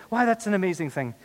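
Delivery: high, loud incredulous retort; emphatic comeback. Acted. Healed man argues back at accusers, loud high retort. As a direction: argue back with full dramatic force.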